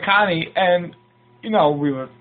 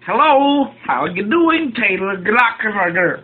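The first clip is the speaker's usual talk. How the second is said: lightly higher Cosby-style greeting; a hint of Cosby, drawn out; Bill Cosby impression; 3 semitones higher than usual. Guest introduced as Cosby greets the host, lightly higher. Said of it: "Mister Doctor William H. Cosby Junior".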